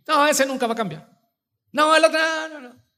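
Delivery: very high mock dismissal; dismissive refusal. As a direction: wave the idea away in a high voice. Voices member refusing to evangelize others. (rechazo burlón, voz muy aguda)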